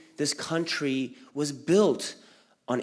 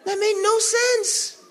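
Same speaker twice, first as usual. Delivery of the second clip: outraged disbelief; 6 dB louder than usual. Real, not acted. Kid's outrage at gifts.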